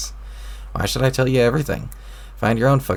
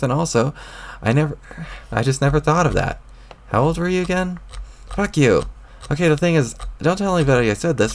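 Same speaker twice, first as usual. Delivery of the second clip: put-on higher, peevish young troll snapping back; irritated troll boy; 5 semitones higher than usual. A troll boy talking back to the voice in his head, irritated.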